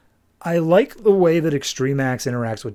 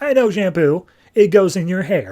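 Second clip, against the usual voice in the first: proud mock assertion; 4 semitones higher, 5 dB louder than usual. Voicing Mouse answering about shampoo.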